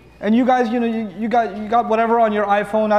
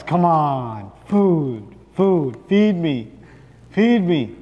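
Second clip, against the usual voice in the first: whiny stomach; 3 semitones lower, much slower than usual. Pretend. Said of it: "Your stomach says".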